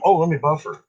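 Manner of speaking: words broken by coughs; coughing. Real, not acted. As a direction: talk through a coughing fit. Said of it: "Pardon my cough".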